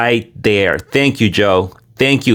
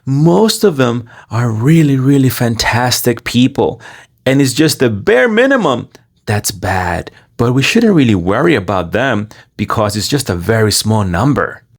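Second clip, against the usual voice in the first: mocking activist. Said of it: "he's always referring to them as".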